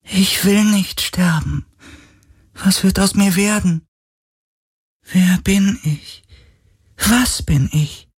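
hohe, langsame, bange Geisterstimme; verängstigter Geist. Acted. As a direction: voller Todesangst fragen. (hohe, ängstliche Geisterstimme)

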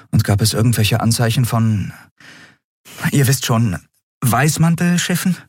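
a hint of a tired captain waking up; captain Endriel voice. Captain Endriel asking the crew about breakfast, lightly voiced.

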